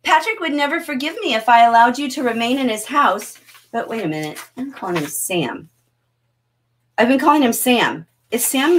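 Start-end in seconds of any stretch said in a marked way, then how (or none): 0.0-3.4 higher-pitched, lightly acted plea; lightly voiced hostess. Teacher reads her dinner invitation to the police, lightly acted hostess. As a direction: read her invitation a little higher, as a hint of a character. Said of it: "And then she says this".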